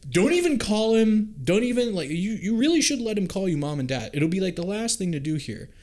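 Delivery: high, exasperated ranting; incredulous rant. Real, not acted. Fan ranting at the screen, high and exasperated. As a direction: vent in disbelief at the bad plan. Ranting at Obi-Wan's choices.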